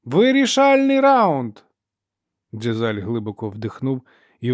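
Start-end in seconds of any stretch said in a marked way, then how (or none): 0.0-1.6 high, loud arena call; announcing referee. Acted. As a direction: proclaim it to the whole crowd. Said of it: "виголосив арбітр".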